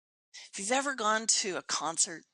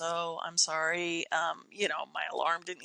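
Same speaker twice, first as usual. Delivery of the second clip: lower, lightly mimicked apology; excuse-making son; 5 semitones lower than usual. Son texting excuses for being late, lightly imitated apology. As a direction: imitate someone mumbling through excuses, lightly. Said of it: "he's giving some excuses".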